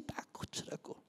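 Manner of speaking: whispered aside; whispered address to the congregation. Real, not acted. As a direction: breathe it to the crowd. Preacher drops to whisper.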